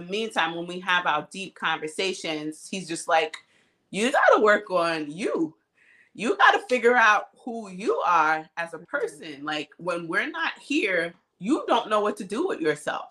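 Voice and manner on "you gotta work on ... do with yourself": mildly pointed, emphatic retold advice; frank advice. Partner telling her to work on herself, frank advice. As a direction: imitate a partner laying it out firmly.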